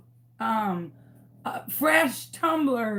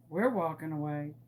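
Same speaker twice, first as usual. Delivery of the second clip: neighbor; 8 semitones lower, 8 dB quieter than usual. Retold or imitated. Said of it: "my neighbor's like".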